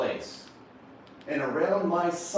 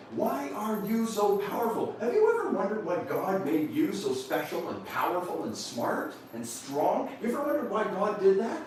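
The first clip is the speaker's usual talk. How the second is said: encouraging father; 5 semitones higher than usual. Retold or imitated. Father building up his young son.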